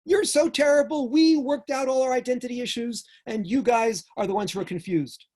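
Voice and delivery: mock the preachy elder scolding the kids; scolding old-timer. Finger-wagging elder lecturing the younger generation, hammed-up scolding. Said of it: "one of these guys who comes and waves his finger".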